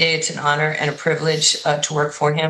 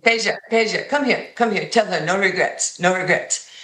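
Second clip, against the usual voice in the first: imitating Vlade; 2 semitones higher than usual. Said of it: "doing the fake cigarette thing that Vlade Divac".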